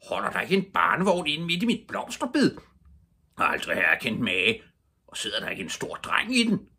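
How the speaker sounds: loud, indignant scolding; storyteller's irate neighbour; angry shout. A narrator's reading. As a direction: rant like an outraged garden owner. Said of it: "meget vred stemme råbe".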